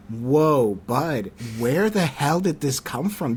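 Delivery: drawn-out, retold bewilderment; taken aback. Replying to the contact's sudden outburst, taken aback. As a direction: pull someone up short, slowly.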